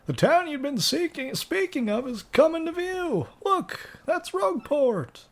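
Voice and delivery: very high, lilting sailor; captain-y voice. Acted. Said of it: "Just this captain-y type voice".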